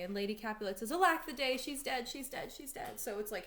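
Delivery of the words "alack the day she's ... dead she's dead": high wail that softens as it repeats; keen it theatrically, then fade; acted lament. Lady Capulet learns she's dead, acted wailing lament.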